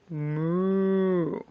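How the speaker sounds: soft low imitated moo; cow moo. Shown as a demonstration. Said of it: "he says".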